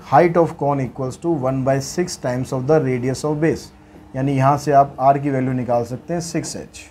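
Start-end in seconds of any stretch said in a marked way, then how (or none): 0.1-3.6 very slow, word by word, for students to copy; dictating the question to students, slow and even; slow dictation read. Shown as a demonstration. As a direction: read it out so the class can write it down. Dictates the formula slowly.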